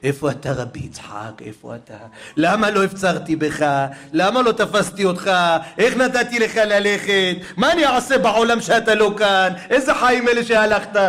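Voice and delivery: rising into an anguished wail; crying out in grief. A narrator's reading. Baba Sali weeping for his brother. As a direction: cry out for the brother who is gone. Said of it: "היה בוכה".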